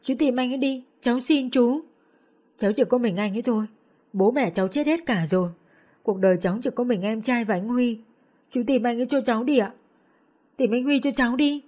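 high, pleading through tears; tearful pleading. Acted. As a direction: beg him for help, half crying. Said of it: "Tôi vừa khóc vừa dập đầu". (cô gái vừa khóc vừa van xin chú)

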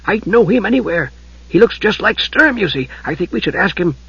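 high, hushed kender voice; a small creature murmuring eagerly; muted kender voice. A narrator's reading. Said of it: "in a muted voice".

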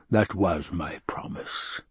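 slow breathy whisper. A narrator's reading. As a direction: hiss the promise like a secret. Baron's cruel aside.

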